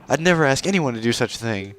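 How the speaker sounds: put-on high-pitched haughty young princess; haughty princess Ruto. Princess Ruto introducing herself to the stranger, high and proud.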